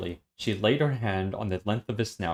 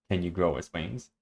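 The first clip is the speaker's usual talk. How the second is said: lower, softer, dry delivery; wry; 4 semitones lower, 5 dB quieter than usual. Shown as a demonstration. Reader retrying after partner's correction, wry tone. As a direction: copy a low, dry wry reading. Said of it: "Wry tone is what I always do".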